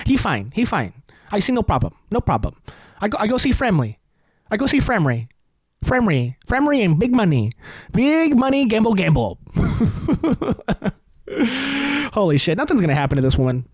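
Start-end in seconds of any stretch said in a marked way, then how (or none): 0.1-9.4 lightly hammed-up Asian accent in broken English; mock Asian accent. Comedian keeps impersonating the senator's wife in an Asian accent. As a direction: toss off the lines in a comic Asian accent. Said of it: "for doing that Asian accent".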